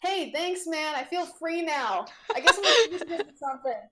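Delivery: cheerful yelled farewell; yelled thanks. Acted. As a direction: call back over his shoulder. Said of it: "he yells at you".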